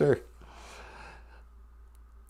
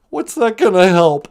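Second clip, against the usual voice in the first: louder doubtful whine; a hint of the Cowardly Lion; 5 dB louder than usual. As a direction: whine back like a scared lion.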